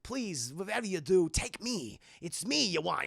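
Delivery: lightly voiced halting pleading; Max Schreck impression. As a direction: plead in short, separated phrases as a lightly imitated tycoon. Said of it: "Walken's Max Schreck, he's like".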